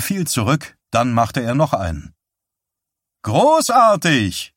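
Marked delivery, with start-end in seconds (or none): 3.2-4.5 high, drawn-out cheer; shrill shout of praise; calling out. A narrator's reading. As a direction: cry it out slowly in triumph. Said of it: "rief Eileen".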